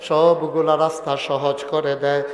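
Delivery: measured sing-song sermon tone; melodic preaching. Real, not acted. Preacher promising that God eases the way, measured chanted sermon. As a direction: let each phrase settle on a held note.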